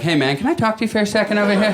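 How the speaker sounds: high, quick, tightly urgent request; urgent pulling-aside. Retold or imitated. Bowler pulling his buddy aside from two girls, urgent.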